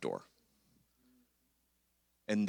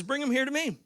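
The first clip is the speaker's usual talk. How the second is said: Jesus commanding. Retold or imitated. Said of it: "So Jesus, in his wisdom, says".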